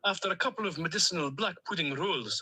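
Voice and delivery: put-on a duck character with a lightly held Stornoway accent; cheerful Stornoway lilt, a duck on a voice message. Duck on a voice note to his owner, in a Stornoway accent. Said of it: "in my Stornoway accent".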